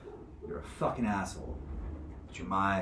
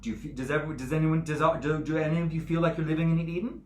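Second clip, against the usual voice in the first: high, raised-voice challenge; indignant scolding; 8 semitones higher, 7 dB louder than usual. Acted. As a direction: press the crowd with agitated, high-pitched questions. Judge scolds crowd about Eden.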